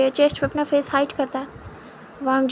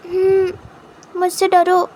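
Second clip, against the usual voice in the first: long hum, then higher, louder order; drawn-out playful command; 6 semitones higher, 4 dB louder, much slower than usual. Acted. Wing to his husband, demanding fear, a long hum then a higher, louder order. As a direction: stretch the hmm, then demand it grandly.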